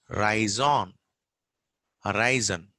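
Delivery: horizon with a weak first vowel; stressed middle syllable in "horizon"; actual pronunciation. Shown as a demonstration. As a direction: say "horizon" as "huh-RAI-zn". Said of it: "actual pronunciation is".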